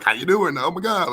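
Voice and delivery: put-on light Valley Girl voice; a quick airy Valley Girl hint. Showing Valley Girl California accent, lightly. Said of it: "the Valley Girl".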